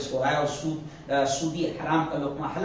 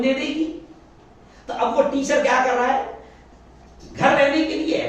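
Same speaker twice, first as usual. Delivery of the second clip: mock excuse; 3 semitones higher, 4 dB louder than usual. Preacher voices and mocks the teacher.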